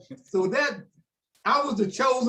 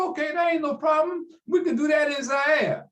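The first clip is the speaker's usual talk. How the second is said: imitating Ali; 8 semitones higher than usual. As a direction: throw it out like the brash champ. Retold Ali answering loudly.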